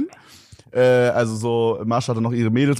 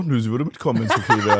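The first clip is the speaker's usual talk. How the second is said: laughing. Retold or imitated. Retelling mom's reply, laughing.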